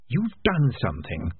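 slow, hissed accusation. Acted. Piper accusing Keith, slow hiss. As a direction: hiss it slowly at him. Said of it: "he hissed".

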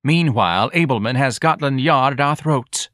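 lightly voiced nagging wife. Mrs Levy nags.

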